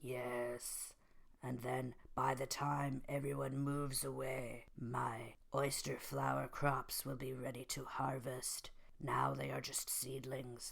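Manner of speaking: softly spoken, deliberate crime boss; mob boss voice. Acted. Mafia boss lays out his land scheme to Guy, soft mob boss voice. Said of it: "he sounds like this now".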